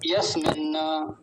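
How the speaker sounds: यस्मिन् न with the न split off, slowly; slow yas-min-na, marked as wrong; wrong pronunciation. Shown as a demonstration. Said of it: "गलत उच्चारण फिर से सुनिए".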